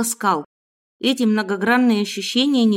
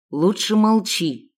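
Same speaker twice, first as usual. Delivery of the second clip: slow warning; slower than usual. Acted. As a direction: drag it out as a threat. Kidnapper warns girl.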